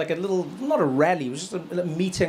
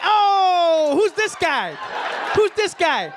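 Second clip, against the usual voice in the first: much higher, louder amazed exclaim; mock surprise; 11 semitones higher, 4 dB louder, much slower than usual. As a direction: gasp it out in disbelief. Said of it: "I was like".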